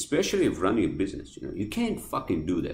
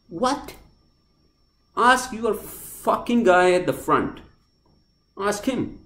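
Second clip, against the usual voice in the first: higher, louder, slow and pointed; angry retort; 11 semitones higher, 4 dB louder, slower than usual. Retold or imitated. Snapping back at the worker, higher, louder and slow. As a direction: jab each word at the worker.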